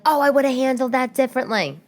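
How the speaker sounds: high-pitched mock hindsight; acted regret. Second-guessing an altercation afterwards, mock regret. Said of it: "Or like".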